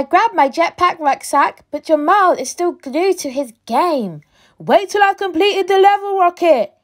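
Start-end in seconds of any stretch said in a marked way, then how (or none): 4.6-6.7 grumbling brother. Acted. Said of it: "he grumbles".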